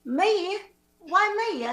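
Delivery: mock Australian with swooping tune; Australian accent. Student questioning the teacher, in an Australian accent. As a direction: protest as a faked Aussie. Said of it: "let's say they're all Australian".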